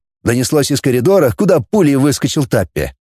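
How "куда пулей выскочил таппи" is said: usual speaking voice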